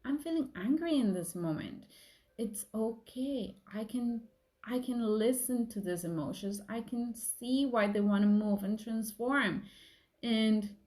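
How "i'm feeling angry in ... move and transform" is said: gentle self-talk. Retold or imitated. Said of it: "accept them and welcome them and say".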